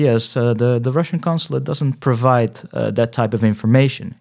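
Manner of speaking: mildly imitated indifferent Russian official; indifferent consulate clerk. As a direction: recite a stock refusal, lightly in character. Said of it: "De onverschilligheid waarmee iemand je aanspreekt". (licht nagedane onverschillige consulaatmedewerkster)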